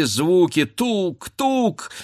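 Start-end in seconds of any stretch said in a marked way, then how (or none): none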